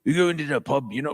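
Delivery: lightly put-on Cockney; a touch of fake London accent; American attempting Cockney; bad Cockney. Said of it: "say it like this".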